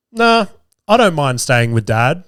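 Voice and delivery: lightly voiced casual, calm kid; calm child's reply. Son answering his mum's question, mildly calm. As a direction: retell it with calm indifference. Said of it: "P just ever so calmly just says to her".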